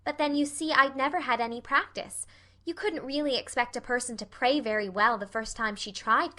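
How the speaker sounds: lightly voiced eager girl; childlike rambling, lifting into questions; chatty, earnest Anne. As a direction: explain yourself earnestly.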